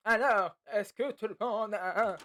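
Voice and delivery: voix de prof posée, un peu traînante; voix de prof trouvée. Acted. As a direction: prends la voix du prof de classe. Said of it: "ouais, c'est bien". (voix de prof, à peine décalée)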